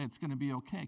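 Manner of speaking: a quiet it's okay; soft reassurance. Retold or imitated. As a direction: soothe a hurt child softly. Parent comforting a hurt child.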